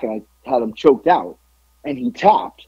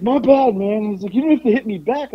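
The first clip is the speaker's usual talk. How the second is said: retold defensive apology; 8 semitones higher than usual. Kicked man apologizes in retold quarrel.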